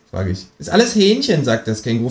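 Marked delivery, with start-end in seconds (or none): 0.6-1.4 much higher, cheeky kangaroo. Acted. Kangaroo reassuring the narrator, high and cheeky. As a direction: pitch way up for the brash kangaroo.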